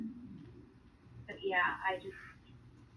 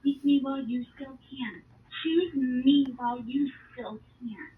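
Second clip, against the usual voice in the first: louder, slowed, earnest prophetic voice; solemn divine plea; 7 dB louder than usual. Retold or imitated. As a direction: plead like God calling his people. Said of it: "He said".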